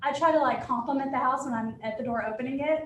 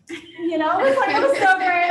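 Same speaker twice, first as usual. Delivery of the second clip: gushing reporter; 6 semitones higher, 9 dB louder than usual. Retold or imitated. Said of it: "she's like".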